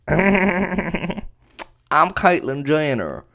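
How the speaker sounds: very slow, drawn-out mock voice; mocking impression, sluggish and stretched; Caitlyn Jenner. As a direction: drag every word out in a silly put-on voice. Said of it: "I don't know why I'm talking like that".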